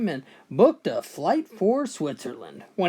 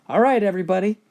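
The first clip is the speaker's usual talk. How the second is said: calling out; 4 semitones higher, 6 dB louder, much faster than usual. Acted. Chief calls the tribe to start.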